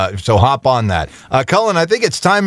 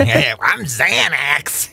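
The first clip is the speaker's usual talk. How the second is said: crazy wizard voice; 2 semitones lower, 3 dB quieter, much slower than usual. Pretend. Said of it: "It sounds like a crazy wizard".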